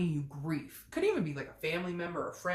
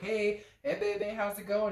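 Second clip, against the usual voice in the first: smarmy ex; 4 semitones higher, 3 dB louder than usual. Retold or imitated. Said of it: "who are all of a sudden like".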